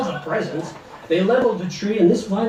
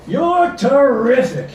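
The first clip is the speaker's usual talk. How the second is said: slow, high, sugary praise; drawn-out flattery; 7 semitones higher, 5 dB louder, slower than usual. Acted. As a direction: stretch the compliment out. Ed flatters Flo.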